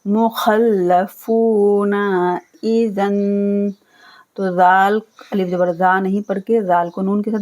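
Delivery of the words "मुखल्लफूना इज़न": slow drawn-out Quranic chant; Quran recitation. Shown as a demonstration. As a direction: recite slowly with tajweed. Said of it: "teacher recites Quran demo".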